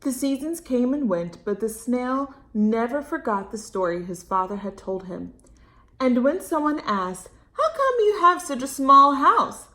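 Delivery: closing storytime narration; storybook reading. A narrator's reading. Reads story to children.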